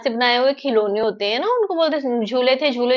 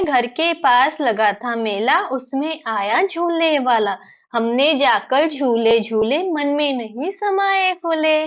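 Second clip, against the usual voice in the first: put-on slow sing-song children's verse; poem recitation; slower than usual. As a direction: recite slowly, stretching each word with a lilting tune.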